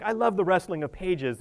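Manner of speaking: slight lift into a fond dad quote; quoted dad. Retold or imitated. Preacher quoting dad on rustling pages, lightly voiced. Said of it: "My dad would be like".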